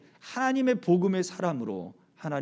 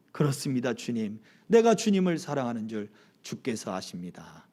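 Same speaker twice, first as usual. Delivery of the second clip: subdued answer; 7 semitones lower than usual. Acted. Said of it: "근심하기 시작했어요". (근심에 잠겨 낮고 조용히 대답하는 베드로)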